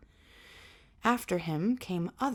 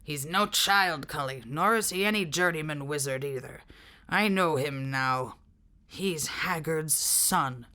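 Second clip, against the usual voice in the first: growl; 4 semitones lower than usual. Acted. Jack Jingley warning Cully about the prisoner, low growl. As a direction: lower rough-edged growl of a big man. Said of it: "Jack Jingley growl".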